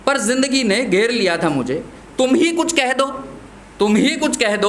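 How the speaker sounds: recited verse, lines repeated with care; poem recitation. Acted.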